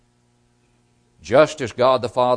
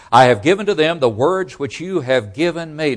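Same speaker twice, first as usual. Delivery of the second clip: "words" given weight in a louder, emphatic quote; stress on words; 3 semitones higher, 4 dB louder than usual. Shown as a demonstration. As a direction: lean on "words" as the key term. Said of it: "Notice the emphasis on the words".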